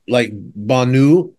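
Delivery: Banu said slowly, stressed on the first syllable: BAH-noo; careful name pronunciation. Shown as a demonstration. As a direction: spell out Banu slowly and clearly. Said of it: "not a singer's name, but Banu".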